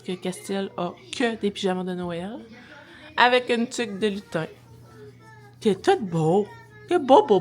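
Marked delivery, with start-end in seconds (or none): 5.6-7.4 gushing. Real, not acted. Praising son. (voix enjouée)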